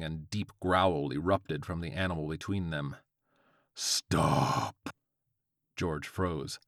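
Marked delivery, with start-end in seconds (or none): 3.7-4.9 low, drawn-out demon dog; demonic Chihuahua cry. A narrator's reading. Chihuahua halts George's attack, low demonic command. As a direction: stretch it out in a deep creature voice. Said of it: "cried the Chihuahua".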